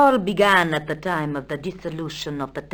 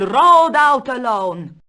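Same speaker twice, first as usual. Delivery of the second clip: raised, loud, slow storytelling flourish; dramatic climax; 5 semitones higher, 7 dB louder, slower than usual. Acted. Countess telling Stobart of Don Carlos, dramatic. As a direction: swell grandly on the tale's climax.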